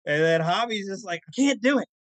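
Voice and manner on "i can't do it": mock desperate wail, higher; half-hearted anguished cry; desperate roommate. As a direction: imitate a frazzled roommate at his limit. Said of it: "almost screaming to himself".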